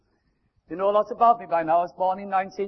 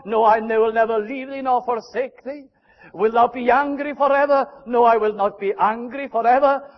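church pleading, God answering; 4 semitones higher, 5 dB louder than usual. Acted. Preacher voices church and God dialogue.

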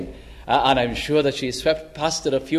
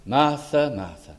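Jesus calling Martha gently by name; gentle. Acted. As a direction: say her name twice, tenderly. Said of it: "He says it gently".

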